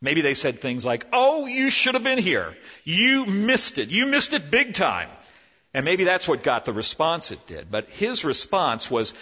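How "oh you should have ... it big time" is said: much higher and louder, gushing; bursting with excitement to tell a friend; excited disciples. Acted. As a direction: disciples telling Thomas what he missed. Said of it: "beside themselves with excitement".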